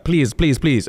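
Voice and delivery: quick run of imitated pleas; lightly acted imploring, pitch lifted; mock begging. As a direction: plead repeatedly, half in earnest. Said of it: "Stop begging".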